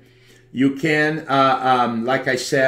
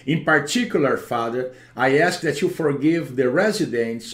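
praying. Acted. Deliverance prayer over the home.

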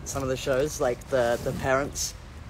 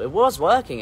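"was" punched higher and louder; stress on WAS; 4 semitones higher, 5 dB louder than usual. Real, not acted. Correcting own claim about the guitar, stress on "was". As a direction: lean hard on "was" in correction.

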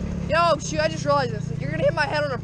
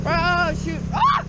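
tripping and falling; 4 semitones higher, much slower than usual. Real, not acted. Go-kart ride, sudden tumble.

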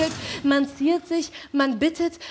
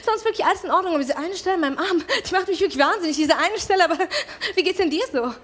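higher, quick chatter breaking into laughs; higher, rushed and giggly, covering unease; nervous friend; 5 semitones higher, faster than usual. Acted. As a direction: play the awkwardly cheerful friend.

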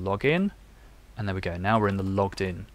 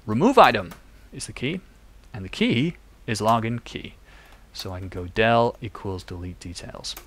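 put-on American accent. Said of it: "Let's just do an American accent".

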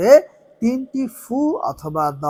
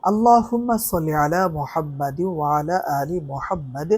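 recited prayer; 3 dB quieter than usual. Shown as a demonstration. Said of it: "তিনবার দুরূদ শরীফ পড়ব".

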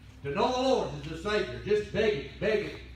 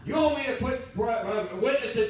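higher, louder, offended wife; indignant Pharisee question; 3 semitones higher, 4 dB louder than usual. Retold or imitated. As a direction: huff it out like a shocked church lady. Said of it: "Sound like a spiritual Pharisee".

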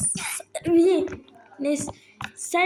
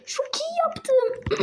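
1 breathless whisper; 13 semitones higher, much slower than usual. Real, not acted. Breathless after cheering.

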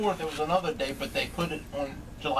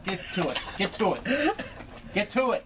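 building impatient urging; 4 semitones higher than usual. Real, not acted. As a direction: push him, rising pitch and volume. Urging friend to start.

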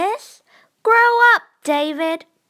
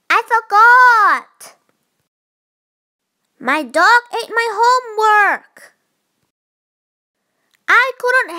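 put-on whiny, tearful kid, higher and louder; fake crying whine; 5 semitones higher, 5 dB louder than usual. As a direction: whimper out the excuses like a caught child. Child whining excuses in story.

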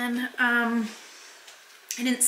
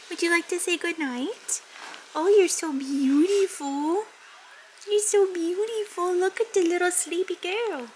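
cooing; 6 semitones higher than usual. Real, not acted. Cooing to sleepy dog.

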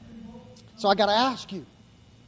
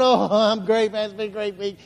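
fake cheerful reply. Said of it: "people look at us, we go".

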